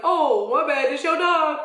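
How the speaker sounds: high, loud put-on apology; mock apology. Imagined dogs answering the screaming owner, loud mock apology. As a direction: play the dogs' sarcastic sorry.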